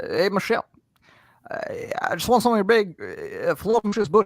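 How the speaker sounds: animated, stuttering through it with uhs. Showing another speaker an impression of Barack Obama: Barack Obama impression. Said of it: "As for Barack Obama, which I've also done".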